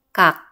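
"gak" cut short on an unreleased final k; final-consonant drill. Shown as a demonstration. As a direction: say "gak" as a loud, careful drill, stopping dead on k. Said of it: "七个尾音都发音看看".

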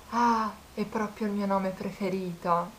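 slow, cheesy mock compliment; lightly voiced smarmy flirt; imitating the guy. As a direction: draw out the corny line, slowly.

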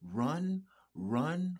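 urgent whisper; whispered urgent warning to escape. Real, not acted. Warning viewers to flee abusers.

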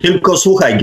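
normal talking voice

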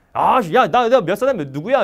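loud, pushy questioning; gruff senior marine. Acted. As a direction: act a senior demanding names from a junior. Acted senior marine grilling recruit. (큰 소리로 다그치는 선임)

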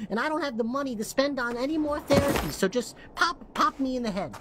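a small town resident, lightly voiced, grieving and accusing; hammed-up distraught little town voice; little cutie townsperson. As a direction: play the last tiny cutie mourning her town. Tiny town character addresses giant player.

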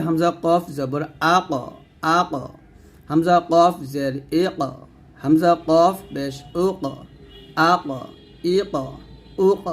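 thick, echoing bounce after ক; thick qalqalah. Shown as a demonstration. Teacher drilling the letter কফ, thick qalqalah. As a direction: give ক a heavy rebound, sound lifted upward. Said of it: "মোটা কলকলা বা আওয়াজ উপরে উঠবে".

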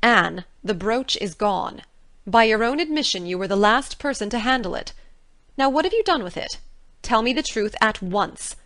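angry Marilla interrogating Anne; angry demand. A narrator's reading. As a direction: demand the truth at once.

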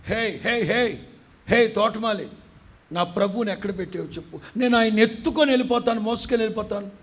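distraught woman crying out; frantic Mary. Acted. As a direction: beg the gardener in a frenzy. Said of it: "పిచ్చెక్కిందిలాగా మాట్లాడుతుంది".

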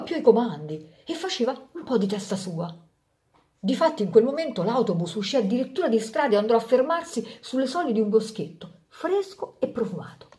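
lively storyteller voice for a fable; story narration. A narrator's reading. Narrator telling a fable to parents, storytelling. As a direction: read it like a bedtime tale for grown-ups. Reads Rodari fable aloud.

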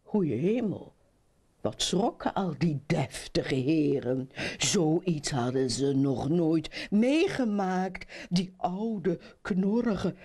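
put-on lively children's storytelling; animated fairy-tale narrator; story narration. A narrator's reading. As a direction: read it to children with rising, swinging lines.

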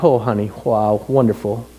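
low, gentle mock-supportive murmur; imagined admiration. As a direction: pretend to be the tender, approving husband. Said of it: "I would just be like".

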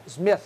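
"Smith" ending in a soft TH. Shown as a demonstration. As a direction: close "Smith" with tongue tip between teeth. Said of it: "É T H".

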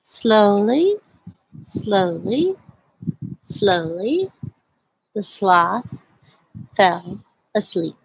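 slow, drawn-out story reading; slow read-aloud. A narrator's reading. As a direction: read at a sloth's pace. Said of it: "I like to read this book very slowly".

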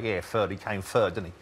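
Cockney with th turned to f; lightly imitated Cockney, "third" as "furd"; traditional Cockney. Linguist quoting London talk, in Cockney accent. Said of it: "also in traditional Cockney".

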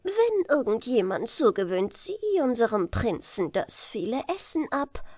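a little chancellor's piping voice; high falsetto. Acted. Chancellor proposing marriage to the king, high falsetto.

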